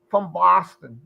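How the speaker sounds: "Boston" in a broad Boston accent. Shown as a demonstration. Host mimicking locals for friends, Boston accent. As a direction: open up the vowel, Boston-style. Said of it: "if you're from Boston, it's like".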